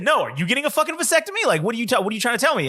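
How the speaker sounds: high indignant counter-accusation; retelling a snappy denial to his dad; mock angry deflection. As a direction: throw it back at him, outraged. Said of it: "I said".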